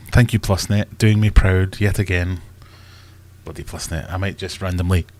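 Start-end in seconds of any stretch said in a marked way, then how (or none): 0.1-2.4 dry sarcastic thanks; mock gratitude, fed up. Real, not acted. Internet dropped again.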